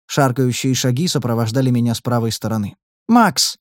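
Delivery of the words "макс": high, loud shrill cry; piercing scream. Acted. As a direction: scream the name across the dungeon. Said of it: "пронзительно закричала Ната".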